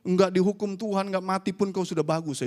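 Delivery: mildly heated mock telling-off; retold scolding. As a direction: scold as if retelling it. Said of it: "saya marahin dia".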